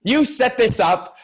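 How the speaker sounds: high, loud, slow disbelieving accusation; imitating himself, amazed and accusing; mock accusation. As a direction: drag it out like you've caught him setting you up. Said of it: "I'm going".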